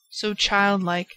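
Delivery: ordinary delivery, nothing marked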